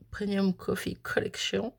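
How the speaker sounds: English words in a French accent; slow attempt at English, French-accented; self-mocked English accent. Real, not acted. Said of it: "Oh, mon accent".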